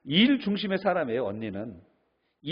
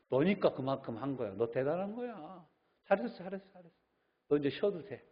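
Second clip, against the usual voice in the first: comforting lecturer; 2 semitones higher, 3 dB louder than usual. Retold or imitated. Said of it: "이렇게 얘기하는 거야".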